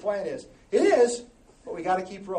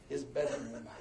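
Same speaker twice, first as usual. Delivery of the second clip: scripture reading; 4 dB louder, slower than usual. Acted. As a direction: read the verse with rising passion. Reads scripture verse.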